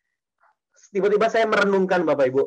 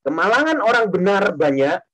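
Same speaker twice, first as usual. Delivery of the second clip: scripture recital; 3 semitones lower than usual. Shown as a demonstration. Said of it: "kita ganti dengan nama kita masing-masing".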